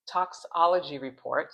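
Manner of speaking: "toxicology" said deliberately, syllable by syllable; careful slow pronunciation. Real, not acted. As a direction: sound out "toxicology" slowly and carefully. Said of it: "I had to say it slow".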